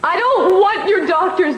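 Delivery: usual speaking voice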